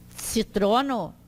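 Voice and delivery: "Citrono" slowly, beginning tsi. Shown as a demonstration. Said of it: "ele tem essa pronúncia do tse".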